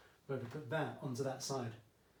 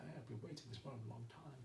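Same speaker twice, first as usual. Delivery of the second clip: Blofeld; 3 semitones lower, 14 dB quieter, faster than usual. Retold or imitated. Teacher imitating Blofeld for his maths class, hushed and sinister. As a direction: savour the words like a villain stroking his cat. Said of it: "I could be like Blofeld".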